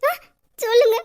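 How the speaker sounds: crying, begging him to answer; tearful pleading. Acted. Wife begging her husband to promise he'll come, crying. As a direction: plead through sobs.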